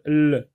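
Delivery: "L" said as the sound lll, not the letter name; isolated final syllable. Shown as a demonstration. Teacher picking out the last syllable, isolated sound. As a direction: hold "L" as a lone consonant sound. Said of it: "La dernière syllabe".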